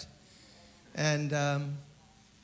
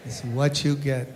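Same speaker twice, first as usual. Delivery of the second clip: quoting Joe; 6 dB louder than usual. Retold or imitated. Quoting Joe's motto in Spanish.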